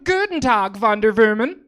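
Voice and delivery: put-on high, loud, thrilled kid with German accent; excited German boy. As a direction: shriek it like a starstruck German kid. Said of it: "a young German boy who's very excited".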